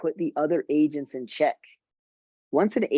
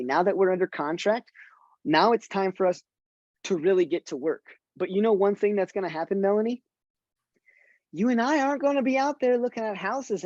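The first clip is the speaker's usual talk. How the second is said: lightly brighter, higher sales voice to a client; friendly client pitch; 3 semitones higher than usual. Shown as a demonstration. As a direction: thank the client, then ask warmly for names. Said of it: "Ask for a referral".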